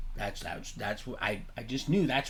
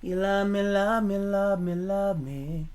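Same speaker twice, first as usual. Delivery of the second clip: mock taunting shout; 6 semitones higher, slower than usual. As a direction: taunt it, dragging the words out. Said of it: "I said".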